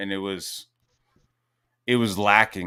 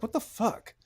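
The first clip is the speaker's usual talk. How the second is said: mock shock; 13 semitones higher, 7 dB quieter than usual. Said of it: "I was just like".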